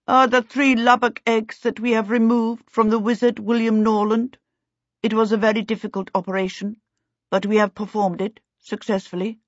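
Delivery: the elf reports the operation with dignity; solemn elf. A narrator's reading. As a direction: speak like a grave, courteous elf. Elf explains the eggs.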